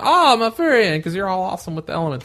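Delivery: high-pitched gushing exclamation; mock fanboy awe. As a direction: imitate your own starstruck reaction. Acts out own past admiring reaction.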